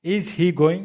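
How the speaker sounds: very slow, every word stretched; teacher's drawn-out example; slow demo. Shown as a demonstration. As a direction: drill it slowly for learners. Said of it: "अभी आप इधर देखिए".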